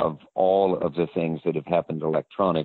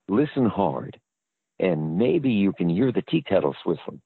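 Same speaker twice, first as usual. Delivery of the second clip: ad read; 2 semitones higher than usual. Shown as a demonstration. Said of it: "So I went back and I said".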